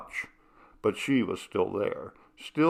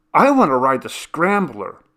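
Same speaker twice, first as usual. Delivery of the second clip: high, loud eager announcement; bursting with glee to ride; gleeful; 6 semitones higher, 9 dB louder than usual. Acted. Cindy to her sister at the carnival, gleeful and loud. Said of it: "announced Cindy gleefully".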